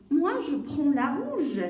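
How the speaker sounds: loud, slow, drawn-out claim; child choosing. Acted. Salima picks the red one, slow loud child's claim. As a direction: stretch it out like an insistent kid.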